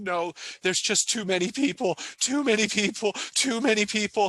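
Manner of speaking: acted, very high, words broken between sobs. Retelling what a crying child said on her dad's lap: imitating a child sobbing. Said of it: "between sobs, she's saying".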